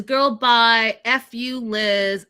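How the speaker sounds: hammed-up blow-up at a friend; retelling a furious exit; mock freak-out. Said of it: "Kimberly freaks out".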